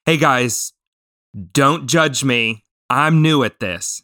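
slow, deliberate plea to be spared judgement; measured, humble admission, acted out; frank confession. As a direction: own up slowly to being a beginner. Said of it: "And I just said".

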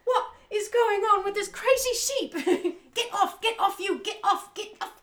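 high, loud, laughing panic; panicked farmer voice. Acted. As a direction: squeal it out in a frantic high voice. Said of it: "She's like".

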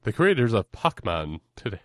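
lightly voiced professional announcer; mock announcer voice. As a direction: play at announcing, with "Pac" as "pock". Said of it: "your professional announcer voice".

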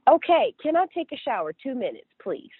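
retold begging to the nurse, fading; pleading. Begging for a shower.

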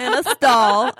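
giggling through the words; laughing. Real, not acted. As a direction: say it while laughing. Laughing while correcting.

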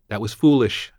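sharp angry hiss. A narrator's reading. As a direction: hiss it out in reproach. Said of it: "she hissed".

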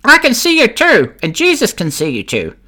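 very high, squawky parrot voice; talking cockatoo. Acted. Caged cockatoo taunts the burglar, high and squawky. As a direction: squeak it out like a pet bird. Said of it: "there ... sits a cockatoo".

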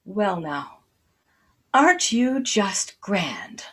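slow, whispered, delighted wonder; slow surprise. Acted. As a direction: breathe it out like a gentle old woman meeting a guest. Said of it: "she said with slow surprise".

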